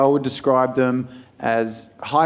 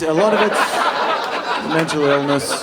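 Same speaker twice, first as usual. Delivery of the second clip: slow emphatic repeat; slower than usual. Shown as a demonstration.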